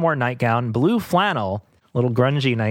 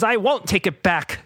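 crying moon; 7 semitones higher than usual. Acted. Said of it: "cried the moon".

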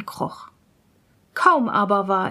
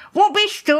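higher, louder searching call; 9 semitones higher, 5 dB louder than usual. Acted. Student to the hidden voice, calling out. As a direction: call out to someone unseen. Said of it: "Da rief er".

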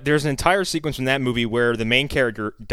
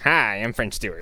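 French Stewart; 3 semitones lower than usual. Acted. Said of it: "I don't know how to do a French Stewart impression".

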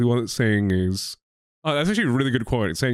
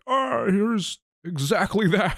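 robot assistant voice; 9 semitones higher, slower than usual. Pretend. AI answering in a voice.

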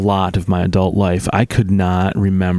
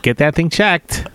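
very high cartoon assistant voice; chirpy high-pitched paperclip helper; Clippy voice; 7 semitones higher, slower than usual. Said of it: "Clippy from Microsoft Word".

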